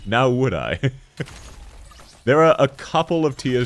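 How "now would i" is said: put-on game character voice; Demo Man. Streamer redoing a game character's boast for chat, playful impression. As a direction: recite it as a cocky character impression. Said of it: "You sound like Demo Man".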